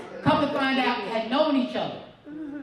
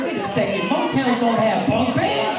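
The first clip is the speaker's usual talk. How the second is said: louder, slower half shout; alarmed protest; 2 semitones lower, 6 dB louder, slower than usual. Retold or imitated. Comic tells mom, louder and slow alarmed protest. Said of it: "I said".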